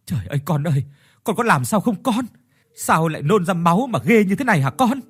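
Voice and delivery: rising, panicked cries to her son; a mother frightened at the sight of blood; alarmed, pleading mother's voice; worried mother. Acted. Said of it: "lo lắng hỏi".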